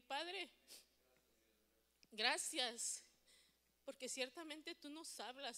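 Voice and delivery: earnest spoken prayer with pauses; prayer that builds from restrained thanks to fervent plea; closing prayer. Real, not acted. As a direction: address the Father in measured phrases.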